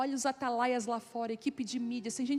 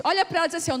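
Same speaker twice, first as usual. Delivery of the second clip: loud, higher call to the audience; rallying instruction; 5 semitones higher, 7 dB louder, much faster than usual. Real, not acted. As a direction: fire up the room to turn and repeat. Calls audience to repeat to neighbour. (chamando o público, com voz alta e animada)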